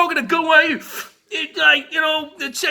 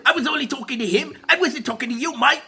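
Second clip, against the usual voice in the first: put-on John Soyega, British accent. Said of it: "No, he said".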